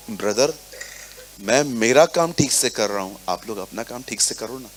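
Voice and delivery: calm brotherly tone. Retold or imitated. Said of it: "इसी लहजे में, इसी टोन में".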